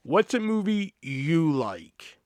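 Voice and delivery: slow, deliberate, lightly put-on; customer's odd wording again. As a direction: spell out the odd question slowly. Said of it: "That's how he worded it".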